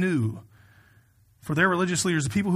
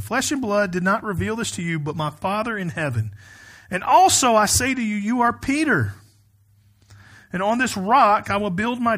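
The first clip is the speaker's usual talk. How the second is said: raised, emphatic pulpit reading voice; scripture reading; 4 semitones higher, 3 dB louder than usual. Acted. Pastor reading the Gospel to his congregation, emphatic scripture reading. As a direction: read it out firmly to a congregation.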